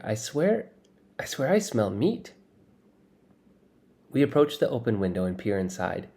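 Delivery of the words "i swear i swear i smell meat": excited disbelief. Acted. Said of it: "Tyrell sniffs the air".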